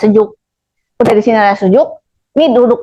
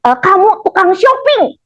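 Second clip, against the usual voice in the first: slow, higher mock verdict from the seer; mock fortune teller; 7 semitones higher, slower than usual. A fortune teller bluntly telling Marina off, slow and high.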